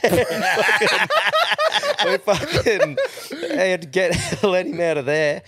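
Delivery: high, helpless laughter breaking up the words; laughing hard. Real, not acted. Telling friends about mate stuck in boot, laughing. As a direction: struggle to get it out through real laughter.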